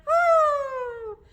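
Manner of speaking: very high, long hooted trumpet call; elephant trumpet. Shown as a demonstration. Teacher showing elephants trumpeting, high hooting call. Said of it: "hear the elephants trumpeting".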